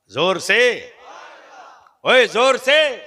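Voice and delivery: high, loud, slow urging shout. Shown as a demonstration. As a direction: push the crowd to shout back.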